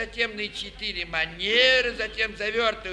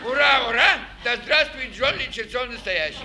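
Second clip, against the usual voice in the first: booming circus ringmaster. Acted. Ликующие возгласы конферансье.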